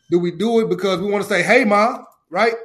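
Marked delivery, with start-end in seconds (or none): 1.4-2.0 proud hello called across to Mom; calling out to Mom. Acted. Player greeting his mother from the court, calling out excitedly.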